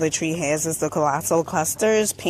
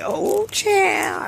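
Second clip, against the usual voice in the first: amused exclamation; 14 semitones higher than usual. Real, not acted. Reacting to funny magnet.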